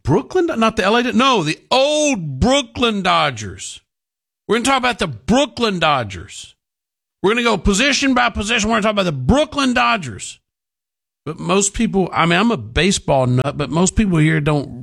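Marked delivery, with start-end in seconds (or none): 0.0-10.4 mocking impression. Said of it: "and they go".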